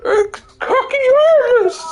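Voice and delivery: very high, squealed mock incantation; mock spell cry. Mock spell cry during game.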